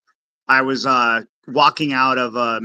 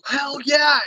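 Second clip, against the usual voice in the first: imitating homeless guy; 9 semitones higher than usual. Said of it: "he goes".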